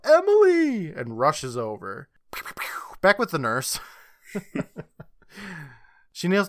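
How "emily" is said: high, loud mock mom's cry; calling out. Mom calls to fallen daughter, acted loud cry. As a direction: call out for a fallen child. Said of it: "Mom calls out".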